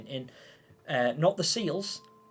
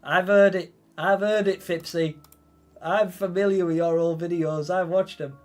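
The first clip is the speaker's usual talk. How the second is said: playful loud ribbing of a viewer; loud teasing; 6 dB louder than usual. Real, not acted. Streamer teasing a viewer about his squeaky voice, loud and playful. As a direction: tease them, loud and gleeful.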